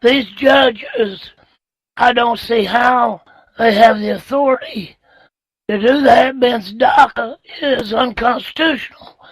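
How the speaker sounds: hoarse, strained voice from laryngitis. Real, not acted. Host with laryngitis answering on air, hoarse and strained. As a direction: push the words out through a sore throat. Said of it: "Les has kind of got a little bit of laryngitis tonight".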